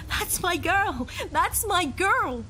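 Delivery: high, slow, loud grieving cry; father wailing over his dead daughter; anguished wail. Acted. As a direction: drag each word out in despair. Father sees daughter's body.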